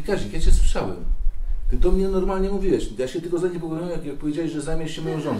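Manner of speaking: high, loud indignant protest; acted aggrieved outburst; revived patient's complaint. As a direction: accuse your friend, freshly revived. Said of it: "I mówi".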